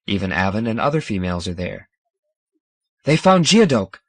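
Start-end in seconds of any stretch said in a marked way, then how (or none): 3.0-4.0 high, louder excited cry; bursting out. A narrator's reading. Tivanel bursting out to Dan, excited. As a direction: blurt out the news with joy. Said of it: "Tivanel bursts out".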